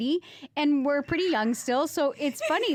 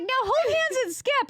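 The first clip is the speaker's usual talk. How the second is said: imitating photographer; 12 semitones higher than usual. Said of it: "She's like".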